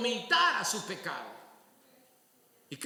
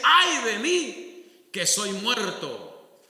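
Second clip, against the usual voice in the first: slow, louder cry of dread; anguished outcry; 6 dB louder, much slower than usual. Retold or imitated. Isaiah before God's glory, crying out. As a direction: stretch it out in anguish before God. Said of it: "Y dice".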